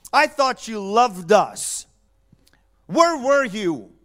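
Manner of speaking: slow, whispered, wounded reproach; hurt whisper. Retold or imitated. Grieving sister whispering her reproach to Jesus, slow. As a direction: breathe it out, hurt and betrayed. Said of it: "They're angry at Jesus".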